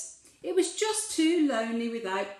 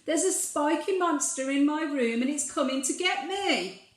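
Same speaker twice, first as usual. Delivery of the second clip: frightened cry; 5 semitones higher than usual. Acted. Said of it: "cried Little Bear".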